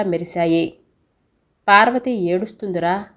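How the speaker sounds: measured storytelling voice, characters lightly voiced; story narration. A narrator's reading. Narrator telling listeners a story about mother, in storytelling voice. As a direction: read it like a bedtime family tale. Reads a Telugu family story.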